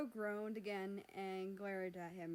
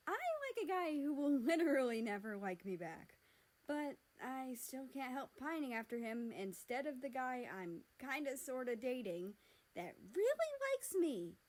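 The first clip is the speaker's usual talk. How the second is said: higher, laughing through it, peaking shrill; nervous laughing confession; 4 semitones higher, 4 dB louder than usual. Acted. America admitting his crush to Mexico, laughing nervously.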